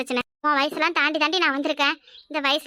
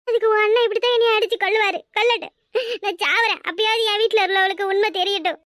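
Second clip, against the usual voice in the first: furious outcry; 4 semitones higher than usual. Acted. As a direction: hurl it at him, daring him. Wife shouts back during fight. (உயர்ந்த குரலில் கோபமான கத்தல்)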